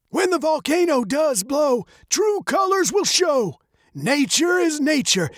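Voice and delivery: ominous rhyming prophecy, pitched very high; dark old man. A narrator's reading. Old man prophesies evil to Veronica, darkly. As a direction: chant it like an old man's warning. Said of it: "the old man said darkly".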